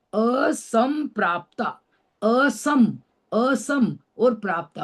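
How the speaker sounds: असंप्राप्ता with the अ added in front, said slowly; slow syllable demo. Shown as a demonstration. Teacher building up the word for students, slowly. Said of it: "अ बोलेंगे पहले".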